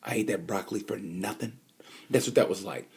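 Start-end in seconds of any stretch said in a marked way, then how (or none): 0.0-1.6 deflated disbelief. Retold or imitated. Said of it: "You go".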